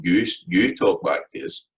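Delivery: "You, you" doubled with weight on "You"; emphatic you. Shown as a demonstration. Teacher showing pupils the emphatic Scots pronoun, stressing "You". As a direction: lean on "You" to point at the listener. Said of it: "that's got the emphatic form".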